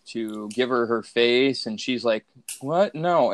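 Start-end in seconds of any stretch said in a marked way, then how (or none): 2.6-3.3 bad acting. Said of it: "the worst acting ever".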